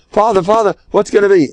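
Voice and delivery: put-on high, pleading little girl; pleading child. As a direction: beg her father for help. Princess begs the king.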